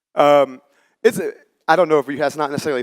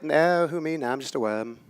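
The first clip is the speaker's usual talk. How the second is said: little worm in mock British, trailing softer; bad fake British accent; 5 dB quieter than usual. The worm tells the girl he's no guide, fake British accent. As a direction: play a humble worm with fake British vowels. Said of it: "worst fake British accent I've ever heard".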